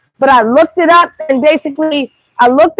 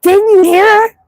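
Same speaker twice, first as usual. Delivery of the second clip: retold question; 6 semitones higher, slower than usual. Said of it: "I'm like".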